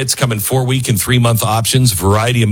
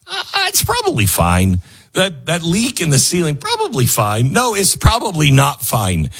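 careless owner; 5 semitones higher than usual. Acted. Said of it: "the phrase".

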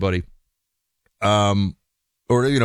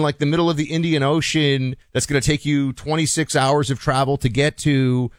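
mock wedding invite; 4 semitones higher than usual. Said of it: "all these people are like".

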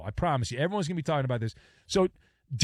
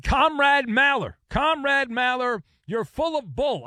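high mock Russian kid, louder; 7 semitones higher, 3 dB louder than usual. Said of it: "the Russian kid said".

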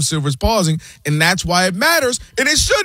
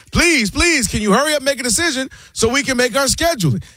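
higher-pitched imitation of begging; mock pleading; 5 semitones higher than usual. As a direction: plead on someone's behalf, half-mocking. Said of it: "begging and pleading".

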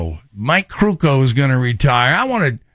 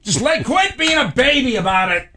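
rude paramedic; 11 semitones higher than usual. Pretend. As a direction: sneer at the patient. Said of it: "just really super rude".

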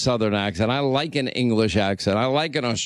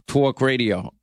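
mock New York vowel on "talk"; mimicked New York accent. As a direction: tease her with a New York "tawk". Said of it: "Linda's New York accent".

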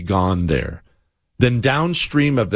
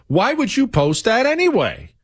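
ordinary talk

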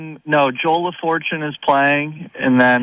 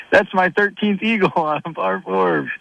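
higher-pitched mild mock yell; retold yelling; 4 semitones higher than usual. Retelling a golfer's eagle boast to the host, mock yelling. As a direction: imitate a golfer crowing, without full volume. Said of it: "he starts yelling".

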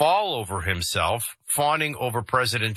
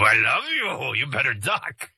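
Pepe Le Pew; 3 semitones higher than usual. Retold or imitated. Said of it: "if I'm looking like Pepe Le Pew and I go".

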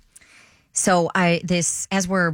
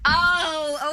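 realization; 10 semitones higher than usual. Retold or imitated. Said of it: "I'm like".

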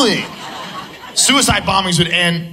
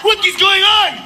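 mock stoned bewilderment; 11 semitones higher than usual. Stoned crowd bewildered, mock yell.

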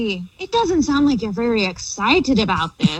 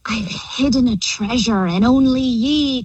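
pirate voice. Pretend. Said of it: "the theme of talking like a pirate".

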